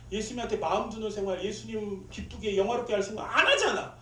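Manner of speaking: high-pitched re-enacted exasperation; exasperated anger. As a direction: complain in frustration, pitched high. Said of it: "막 그런 생각이 화가 나가지고". (화나서 높은 톤으로 따지듯)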